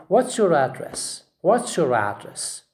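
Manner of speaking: "address" stressed on AD; first-syllable stress. Shown as a demonstration. Teacher models asking where you live, stressing AD in "address". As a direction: hit AD in "address", falling after it. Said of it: "So we say".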